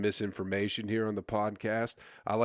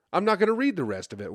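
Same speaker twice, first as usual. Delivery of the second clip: excited repeat; 9 semitones higher, 5 dB louder, faster than usual. Real, not acted. Repeats it, louder and faster.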